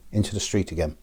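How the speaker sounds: ordinary talk, nothing marked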